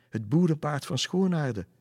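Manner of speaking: high, loud cry of recognition; exclaiming. A narrator's reading. Lisse names the farm horse she knows, exclaiming. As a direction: call it out in amazement. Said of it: "riep Lisse uit".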